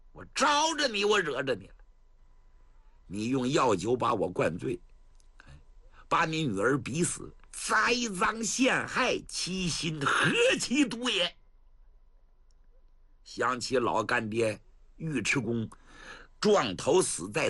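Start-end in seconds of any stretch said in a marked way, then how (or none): 0.1-11.4 mild anger. Acted. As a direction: reproach the traitor with burning restraint. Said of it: "他眼睛都冒火". (压着火气斥责)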